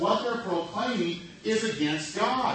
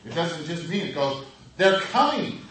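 ordinary delivery

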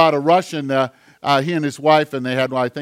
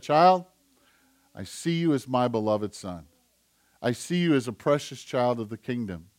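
soft, lower voice, not quite whispered; retold whisper; 4 semitones lower, 5 dB quieter than usual. God whispers to his beloved child, softly and low. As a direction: gently lower and soften it, as if confiding. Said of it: "he whispers".

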